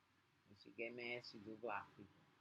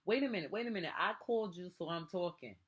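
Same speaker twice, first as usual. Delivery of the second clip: raised voice, higher pitch, cutting in; voice going up; 4 semitones higher, faster than usual. Real, not acted. Parent claiming the floor from a grown child, voice going up. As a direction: cut in with your voice jumping up. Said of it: "this is what makes my voice go up".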